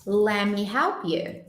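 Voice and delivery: "Let me help you" slowly, T dropped, lemme; slow lemme demo. Shown as a demonstration. Teacher slows the phrase for the class, linked lemme. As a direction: stretch it out so students hear lemme. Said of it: "ó".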